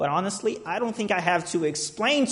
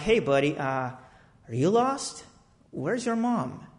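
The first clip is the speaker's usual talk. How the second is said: put-on gentle to a child; 3 semitones lower, 5 dB quieter than usual. Talking gently to lost kid.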